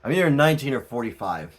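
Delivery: quick unvoiced whisper aside. Real, not acted. Tarot reader whispering a joke to viewers. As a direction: whisper it fast like a secret.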